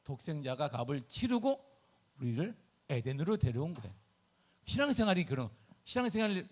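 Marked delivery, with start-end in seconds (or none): none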